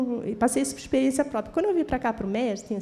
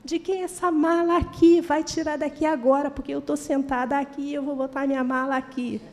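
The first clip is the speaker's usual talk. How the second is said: nervous angry demand; 3 semitones higher than usual. Retold or imitated. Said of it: "eu estava nervosa demais".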